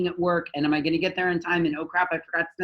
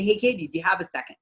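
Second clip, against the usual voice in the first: polite ask; faster than usual. Retold or imitated. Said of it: "I would knock on the door and I would say".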